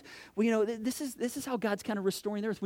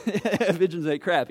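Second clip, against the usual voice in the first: punchline; 9 dB louder, slower than usual. Real, not acted. Joke about what pigeons make.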